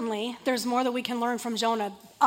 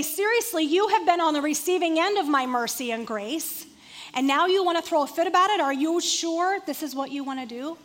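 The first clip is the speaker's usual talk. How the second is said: exasperated God; 3 semitones higher than usual. Retold or imitated. God scolding Jonah, exasperated.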